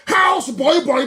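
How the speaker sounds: slow, loud, contemptuous shout; furious ranting yell; angry shout. Real, not acted. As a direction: spit the words out in anger. Angry rant about Fulani.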